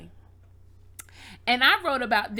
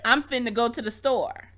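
AAVE; 5 dB louder than usual. Shown as a demonstration. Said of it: "so finna is really".

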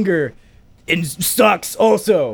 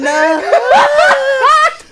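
high laughing wail; 6 dB louder than usual. Acted. High cry amid mock ballad.

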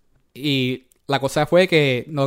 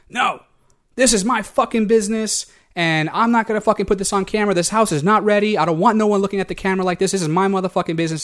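higher-pitched imitation of an indignant man; mock indignant rant without shouting; retold angry refusal; 5 semitones higher than usual. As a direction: put your foot down, mimicking his protest. Acts out the guy refusing to film.

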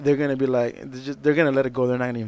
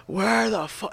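higher-pitched mock annoyed call; imitated impatient bandmates; 6 semitones higher, slower than usual. Bandmates call for the missing singer, mock annoyed. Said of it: "on the microphone".

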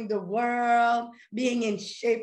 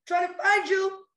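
voicing your desire; 9 semitones higher, 5 dB louder than usual. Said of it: "your desire is like".

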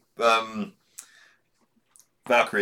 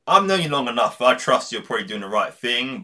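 mock Wolverine; 3 semitones higher, 4 dB louder than usual. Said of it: "Wolverine's like".

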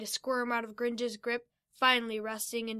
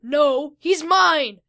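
loud, higher angry shout; yelled back; 4 semitones higher, 12 dB louder, much slower than usual. Acted. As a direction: yell it back over the giant. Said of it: "Fido yelled back".

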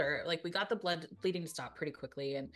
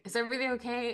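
retold yell; 6 semitones higher, 4 dB louder, faster than usual. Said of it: "I yelled down and I was like".

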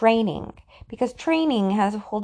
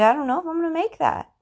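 higher, quicker worried climber; acted self-doubt; 6 semitones higher, faster than usual. Climber freezing at the bottom of Everest, doubtful. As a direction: voice a climber's mild worry.

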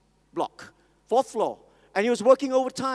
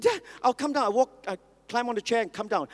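put-on a lightly raised small boy's voice; little son; 3 semitones higher than usual. Preacher voicing his small son, lightly raised child voice. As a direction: play the toddler pleading with dad.

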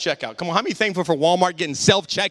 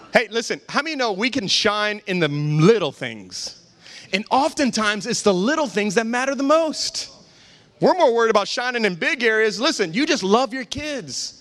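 preaching; 5 semitones higher than usual. Real, not acted. Returns to preaching.

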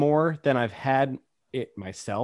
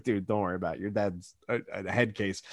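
hushed reassurance; 5 semitones lower, 7 dB quieter, faster than usual. Retold or imitated. Comforting the kid.

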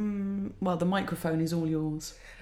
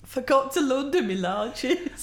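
higher, slow, prim note-reading; formal sick note voice; 4 semitones higher, slower than usual. Pretend. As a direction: read it like a prim excuse letter.

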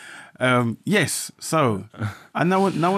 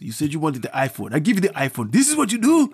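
scolding parent. Retold or imitated. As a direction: tell off a brother. Voicing scolding brother.

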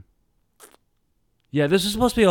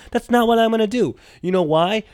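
emphatic declaration; 10 semitones higher, 5 dB louder than usual. Acted. Declaring loudly.

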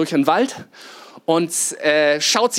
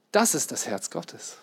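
hushed awe; 3 semitones lower, 10 dB quieter than usual. Acted. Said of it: "repeated softly".

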